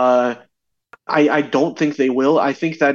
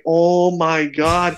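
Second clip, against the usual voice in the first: slow aghast; 3 semitones higher, much slower than usual. Retold or imitated. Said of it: "and I'm like".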